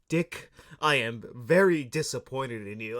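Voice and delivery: slow, measured mock reproach; hint of a disappointed boss, taking his time; lightly voiced stern boss. Boss to Dick beside a dead man, lightly acted slow reproach.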